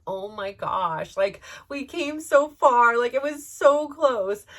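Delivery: drawn-out, rising lament; retold dismay. Mom at the closed gate, dismayed.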